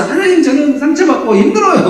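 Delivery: high, loud wailing plea to God; a high, loud lament to God; pleading prayer. Retold or imitated. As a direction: cry out to God like a hurt wife. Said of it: "기도하면서".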